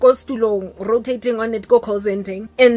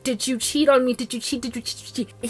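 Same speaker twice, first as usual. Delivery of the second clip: each ask softer until almost gone; repeated question fading to near silence; 6 dB quieter than usual. Retold or imitated. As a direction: trail the question off into nothing. Repeated probing on phone.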